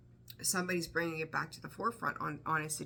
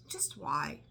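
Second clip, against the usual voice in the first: an exasperated whisper. Real, not acted. Whispering to Scorpio, fed up with cross watchers. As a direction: breathe it out, fed up.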